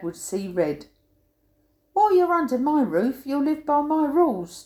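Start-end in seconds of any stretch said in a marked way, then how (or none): 1.9-4.6 dad snapping. Retold or imitated. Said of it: "Dad snapped".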